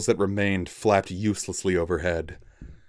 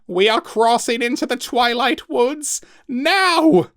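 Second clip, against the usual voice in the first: much higher, much louder shout; called back; 7 dB louder than usual. Acted. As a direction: shout back while leaping off. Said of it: "he called back".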